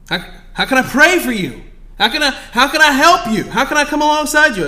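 loud, high fervent preaching. Acted. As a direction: urge them with rising passion. Preaching at full force.

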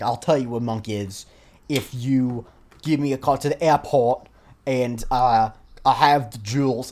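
a half-hearted, slow attempt at an American accent; mock American accent, clearly botched; bad American accent. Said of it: "I'm trying to do a bad American accent".

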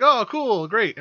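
hammed-up cheerful reply; mock enthusiasm. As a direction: play the giddy filmmaker. Mocking filmmakers' reply.

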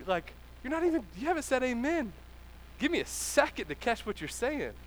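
quick, rising protest of a confused disciple; bro, hold up, let me catch up; flustered disciple. Pretend. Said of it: "imagine being one of the disciples going".

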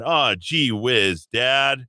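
put-on slow gee-whiz kid voice; corny 1950s sitcom kid; wholesome 1950s kid. Golly, Wally.

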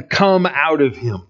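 firm, outright demand; sharp rebuke. Acted. Preacher voicing Jesus rebuking the spirit, sharp. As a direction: command it sternly. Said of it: "rebukes him sharply".

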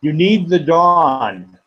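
measured, unhurried reading of a prayer poem; poetry reading. Acted. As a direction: lift each line gently, let pauses breathe. Poet reads second poem aloud.

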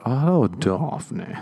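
slow suggestive drawl. Retold or imitated. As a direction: lean into the name slyly. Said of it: "What's that meant to mean".

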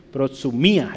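"Protsumía" with the accent landing on the í; stress on the í. Shown as a demonstration. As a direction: lean on the "mí" of "Protsumía". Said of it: "el acento está aquí en la I".

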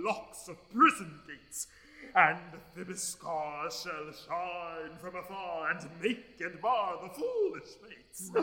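grand tyrant's ranting verse; lofty. Acted. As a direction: declaim it like a bombastic tyrant. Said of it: "That was lofty".

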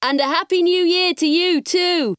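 Dad's hearty call, pitched high across the graveyard; calling out cheerfully. Retold or imitated. Dad calls up to the hooting owl, a hearty high call. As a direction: sing out the greeting up to the owl. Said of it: "Dad called out".

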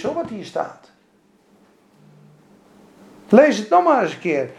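ordinary delivery

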